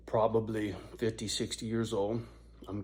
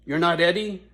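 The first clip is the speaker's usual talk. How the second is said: imitating the lady; 5 semitones higher, 6 dB louder than usual. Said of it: "And she goes".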